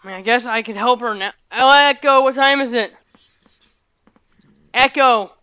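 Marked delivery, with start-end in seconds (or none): 1.5-5.3 louder, raised voice to the speaker; calling out to Echo. Real, not acted. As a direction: call across the room to the device.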